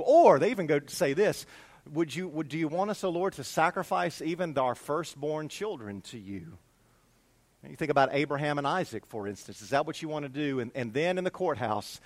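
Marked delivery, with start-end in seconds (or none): 1.9-6.6 softer, hesitant question; hushed offer. Acted. People of Israel offering sacrifice to God, hushed. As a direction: drop the volume for a grave offer.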